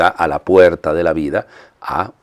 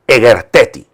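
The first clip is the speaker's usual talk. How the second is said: firm, raised one-word order; strong, higher-pitched imperative; forceful command; 4 semitones higher, 4 dB louder than usual. Acted. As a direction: deliver it strongly, after a pause. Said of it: "Es decir, fuerte".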